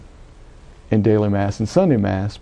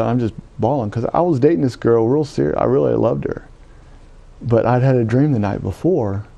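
normal talking voice

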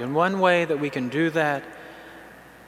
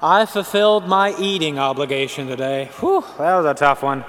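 mock complainer. Imagined person moaning about meals, mock weary. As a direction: play a martyr whining that eating was a duty. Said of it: "Can you imagine someone saying".

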